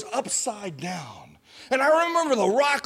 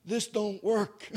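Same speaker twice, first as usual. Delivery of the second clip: feeble croak; 6 dB quieter than usual. Retold or imitated. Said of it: "The only thing I could muster".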